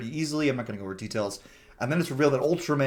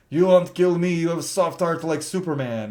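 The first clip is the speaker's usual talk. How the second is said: loud, higher-pitched cocky imitation; mock taunting villain; 5 semitones higher, 5 dB louder than usual. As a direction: imitate a villain sure he'll be spared. Villain taunts his captor, retold.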